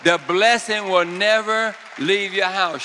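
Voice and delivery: fervent decree before the shout; loud preacher's declaration. Real, not acted. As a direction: call it out over the room. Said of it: "Shout it out".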